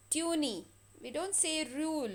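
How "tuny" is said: "tuny" with the silent E sounded as an extra ee; wrongly voicing the E in "tuny"; wrong pronunciation. Shown as a demonstration. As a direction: show the mistake, an extra ee at the end of "tuny".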